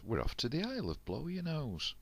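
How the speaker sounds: high, eager call to the crew; excited announcement. A narrator's reading. Jack calling out to his crew, high and eager. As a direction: lift it up like setting off on an adventure.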